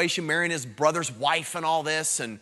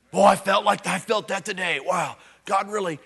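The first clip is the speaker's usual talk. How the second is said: mocking churchy gush; 2 semitones higher, 4 dB louder than usual. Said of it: "talk like that in the church".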